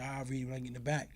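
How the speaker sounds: hushed, quick, almost breathless; whispered aside. Retold or imitated. Telling his lawyer he'll read the letter later, whispered. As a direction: keep it under your breath and brisk.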